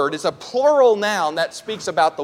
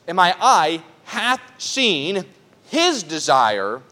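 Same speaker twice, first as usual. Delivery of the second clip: scripture reading. Acted. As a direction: read it like a sacred text, weighing each line. Reading the psalm aloud.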